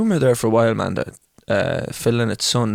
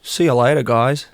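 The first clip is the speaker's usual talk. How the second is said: put-on Australian accent. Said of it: "What about Australian?".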